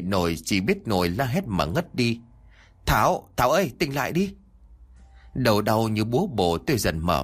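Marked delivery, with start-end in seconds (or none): 2.9-4.3 urgent calling. Acted. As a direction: call her name to rouse her. Colleague waking fainted woman. (gọi to cho tỉnh dậy, giọng cao)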